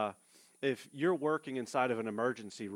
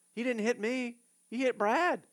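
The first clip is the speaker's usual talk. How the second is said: much higher, building to louder; rising emphasis; 10 semitones higher, 3 dB louder than usual. Real, not acted. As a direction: drive home who was hit. Preaching point, rising emphasis.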